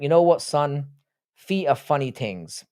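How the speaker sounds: lightly imitated dad with an Irish accent; father's Irish brogue, mildly put on; thick Irish accent. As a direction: do your Irish dad, slowing at the end. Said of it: "his really thick Irish accent".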